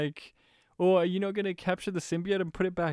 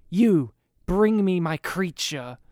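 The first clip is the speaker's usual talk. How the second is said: slow deadpan cold command; a cold, emotionless order, said slowly; mock-monotone villain quoting the actor; flat monotone villain line; 5 dB louder, slower than usual. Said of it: "he still delivers it in his monotone, cold way".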